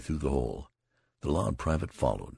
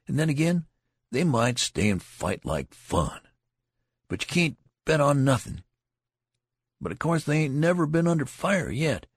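animated; 6 semitones higher, 4 dB louder than usual. A narrator's reading. Tall soldier expounding.

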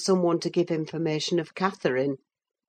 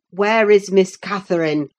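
stern demand; 3 semitones higher, 7 dB louder than usual. Acted. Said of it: "I demanded sternly".

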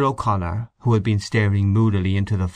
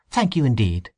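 velvety voice. A narrator's reading. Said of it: "velvety voice".

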